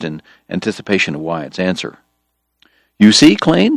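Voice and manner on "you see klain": high, louder enthusiastic call; eager exclamation. Acted. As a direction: proclaim it brightly to the room. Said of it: "George cried".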